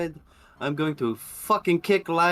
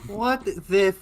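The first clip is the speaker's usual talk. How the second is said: angry outburst; 7 semitones higher, 3 dB louder, slower than usual. Acted. Character bursts out at the scene.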